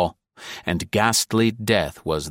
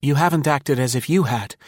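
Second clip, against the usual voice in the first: 1 cool voice; 7 semitones higher than usual. A narrator's reading. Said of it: "in the same cool voice".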